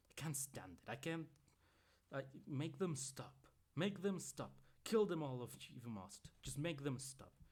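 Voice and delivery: high, loud desperate begging; frantic, near breaking; hysterical pleading. A narrator's reading. Mother begging her son to silence the wolves, frantic.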